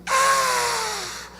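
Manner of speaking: high short scream; woman's possessed scream. Retold or imitated. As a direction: let out a sudden shriek. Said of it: "com um grito assim".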